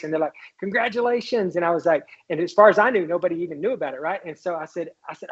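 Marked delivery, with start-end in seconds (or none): 0.6-1.5 higher-pitched, sing-out congratulations; imitating colleagues' gleeful greeting; grinning congratulations. Staffers walking into the office with good news, grinning. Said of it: "they got these big grins".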